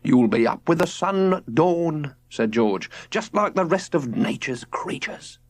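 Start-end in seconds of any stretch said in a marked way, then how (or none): 0.0-2.1 slow, higher father rhapsodizing; a dreamy father preaching nature; lofty dad voice. A narrator's reading. George's voice. 3.1-5.4 slow, higher father rhapsodizing; a dreamy father preaching nature; lofty dad voice. A narrator's reading. George's voice.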